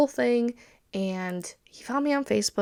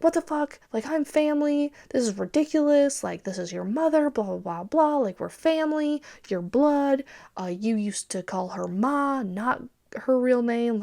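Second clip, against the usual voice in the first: mock offended uncle; 4 semitones higher than usual. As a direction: ham up his indignant ranting. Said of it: "he got super offended by that".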